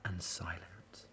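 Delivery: near-whispered storytelling; very soft, breath-only narration; hushed. A narrator's reading. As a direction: let the words vanish into silence. Zoo falls still and silent.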